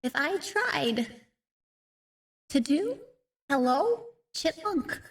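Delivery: helium-like chipmunk voice. Real, not acted. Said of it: "We are currently a chipmunk".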